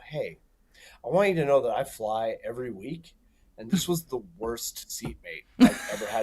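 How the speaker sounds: low, hushed lean-in; quiet confiding. Retold or imitated. Telling the girl next to him, softly confiding. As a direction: lean over and murmur the secret. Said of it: "I lean over and I go".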